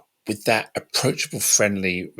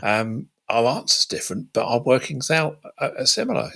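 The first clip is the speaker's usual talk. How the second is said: understanding; 6 semitones higher than usual. Acted. Models a respectful reply in disagreement.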